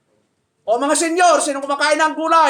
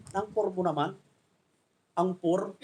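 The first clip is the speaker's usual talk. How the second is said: mock scorn; 5 semitones lower, 11 dB quieter than usual.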